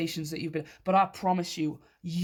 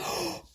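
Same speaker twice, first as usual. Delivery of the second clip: gasp; 10 semitones higher, 4 dB quieter than usual. Real, not acted. Card reveal surprise.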